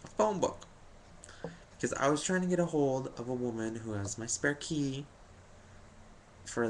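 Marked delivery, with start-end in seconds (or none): 0.0-0.7 much higher, disbelieving repeat; can you believe it; stunned disbelief at the mail; incredulous. Real, not acted. Mail was only a phone book.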